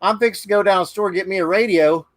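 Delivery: quick, lightly put-on Southern twang; a hint of a rural Southern accent; Southern drawl imitation. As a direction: mimic a local kid's Southern talk. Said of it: "the woman talked backwards".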